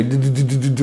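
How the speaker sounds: d repeated to draw it out; stretched D. Shown as a demonstration. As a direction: show a held d sound. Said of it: "on ne peut pas dire un D rallongé". (d répété pour l'allonger)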